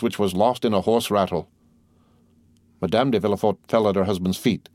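plain reading voice

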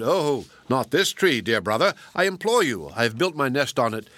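frantic magpie imploring the fox; pleading screech. Acted. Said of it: "the magpie screeched loudly and exclaimed".

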